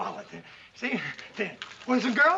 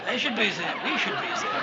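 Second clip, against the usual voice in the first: mock-Viennese aside; fake Viennese accent; 3 semitones lower than usual. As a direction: chime in with a put-on Viennese accent. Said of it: "Viennese will do".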